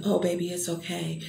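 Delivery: soft, consoling nurse; softly voiced words of comfort. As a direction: soothe gently, voice dropped low in volume. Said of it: "she started to console me".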